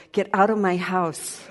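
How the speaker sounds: mock exasperation. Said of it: "you'd go".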